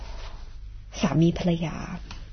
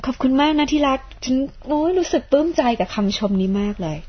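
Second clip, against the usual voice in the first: lightly acted gushing thanks, pitched up; mock-sweet, higher-voiced gratitude; delighted wife; 6 semitones higher than usual. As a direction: play a wife thrilled by a compliment. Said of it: "ภรรยาเลยบอก".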